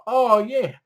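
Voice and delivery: high breathy-sounding fake moans; lightly mocked moaning. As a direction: ham up the bedroom moans. Mimicking characters having sex.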